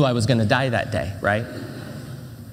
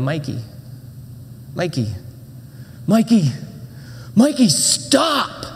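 calling out, building to a shout; 2 semitones higher, slower than usual. Retold or imitated. Boy yelling at a bully to stop.

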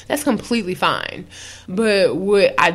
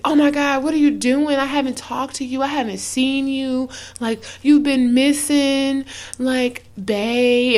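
higher, sing-song needy voice as the guy; mock needy guy; 5 semitones higher than usual. Mocking the guy who suddenly misses her, in a high needy voice. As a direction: gush over her like a clingy boyfriend. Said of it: "it's like".

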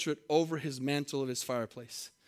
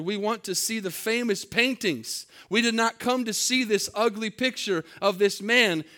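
mock heckler's shout, raised and higher; a heckler's raised shout from the back of the auction room; retold shout; 5 semitones higher than usual. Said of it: "a voice in the back of the room shouted".

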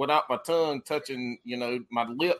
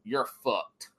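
slow, louder mock pronouncement; retold blunt verdict; 5 dB louder, much slower than usual. Teammate reacting in team chat to the matchup, imitated blunt doom. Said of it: "And Nate goes".

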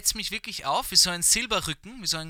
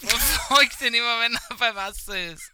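put-on narrator voice; 5 semitones higher, 5 dB louder than usual.

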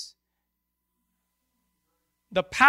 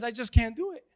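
softer, lower, self-pitying Moses; lightly voiced insecure Moses; whiny Moses; 3 semitones lower, 4 dB quieter than usual. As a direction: sulk and plead like an unsure man. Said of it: "Moses stands before him and says".

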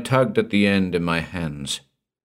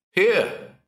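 high sharp shout; 13 semitones higher than usual. Acted. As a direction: call out to guide him. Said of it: "I shouted".

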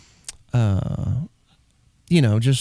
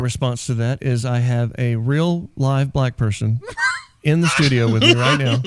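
laughing; 2 semitones lower than usual. Real, not acted. Laughing through his comeback.

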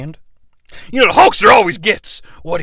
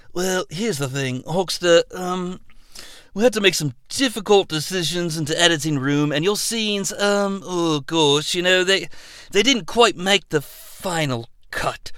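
much softer, halting director voice; Christopher Nolan; 7 dB quieter than usual. Acted. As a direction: ease into the bad news awkwardly. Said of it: "director Christopher Nolan".

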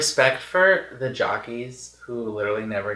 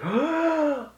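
sharp, high gasp; shocked gasp. Retold or imitated. Retelling the moment the horse got injured, shocked gasp. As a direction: suck in breath in mock shock.

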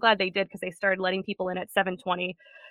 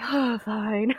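put-upon, sighing Oh, fine; dramatic reluctance. Retold or imitated. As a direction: give in like a martyr. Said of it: "a dramatic sigh".

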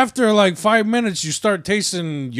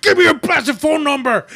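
movie character impression; 9 semitones higher than usual. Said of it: "that guy on Don't Be a Menace".

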